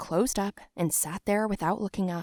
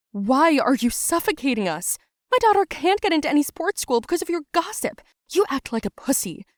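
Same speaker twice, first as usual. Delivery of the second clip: loud, much higher angry outburst; furious yell; 8 semitones higher, 5 dB louder than usual. Retold or imitated. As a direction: let the mother's rage spill out. Mom yelling at Dredd's dad.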